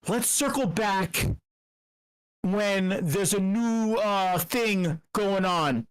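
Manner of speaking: slow, drawn-out corporate speak; lightly voiced corporate manager, slow; mock corporate jargon. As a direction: parody a manager putting things off. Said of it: "corporate jargon like".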